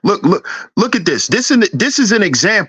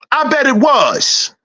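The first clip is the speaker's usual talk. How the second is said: sarcastic shout; 4 semitones higher than usual. Real, not acted. To a rich kid complaining about his dad, slow sarcastic shout.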